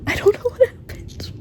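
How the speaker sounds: high, slow, laughing through the words; breaking into a high giggle; laughing despair. Real, not acted. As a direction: laugh helplessly at it. Overwhelmed by ending.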